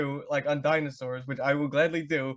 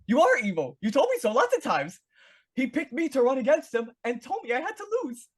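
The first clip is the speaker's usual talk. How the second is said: Earl voice; 8 semitones higher than usual. Retold or imitated. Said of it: "And you go".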